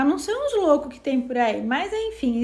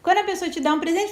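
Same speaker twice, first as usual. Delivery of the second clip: ordinary delivery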